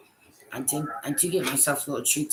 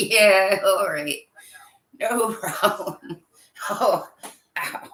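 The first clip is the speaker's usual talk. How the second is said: laughing, then a pained ow; laughing through pain; 4 semitones higher, 6 dB louder, much slower than usual. Real, not acted. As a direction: laugh that turns into ow. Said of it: "It hurts to laugh".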